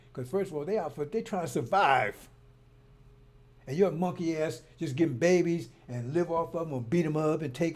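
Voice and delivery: loud, fired-up defence of the sisters; raising his voice for the sisters; heated rant. Real, not acted. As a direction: preach it hard and loud.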